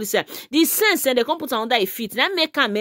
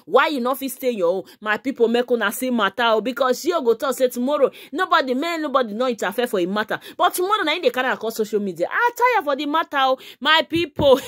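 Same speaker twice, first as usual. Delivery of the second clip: ordinary delivery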